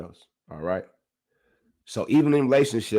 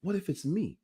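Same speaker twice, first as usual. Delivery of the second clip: hushed inner doubt; 5 semitones higher, 9 dB quieter than usual. Retold or imitated. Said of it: "I'm like".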